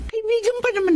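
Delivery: whispered, pleading with husband; soft embarrassed whisper; hushed plea. Acted. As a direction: breathe it out, embarrassed for a friend. Wife pleads softly to husband.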